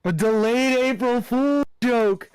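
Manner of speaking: slow, high amused repeat. Real, not acted. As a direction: savor each word with delight.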